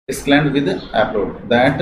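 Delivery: very slow, each word drawn out; slow dictation of the phrase; slow read-aloud. Shown as a demonstration. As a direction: read it out slowly for students to copy. Teacher reads new reporting phrase.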